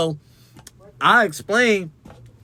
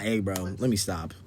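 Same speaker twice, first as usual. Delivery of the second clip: much lower and softer "Hey, bro." almost mumbled; mock meek plea; 9 semitones lower, 9 dB quieter than usual. Shown as a demonstration. Host not pleading meekly with the photographer, low soft mumble. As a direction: shrink the "Hey, bro. Let me stop." into a timid low mumble. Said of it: "She's like, not".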